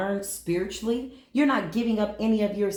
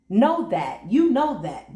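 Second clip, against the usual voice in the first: laughing emphasis; 4 semitones higher, 4 dB louder than usual. Real, not acted. Emphatic affirmation, laugh heard.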